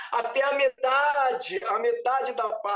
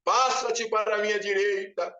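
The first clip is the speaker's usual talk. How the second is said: voice of authority. Retold or imitated. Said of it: "aquela voz de autoridade".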